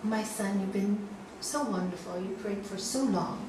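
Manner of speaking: lightly voiced God, calm and measured. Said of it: "he hears this, um, voice saying".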